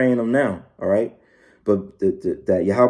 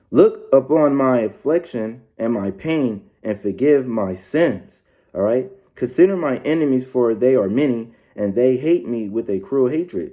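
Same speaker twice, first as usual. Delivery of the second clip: scripture reading. Acted. Reads psalm slowly.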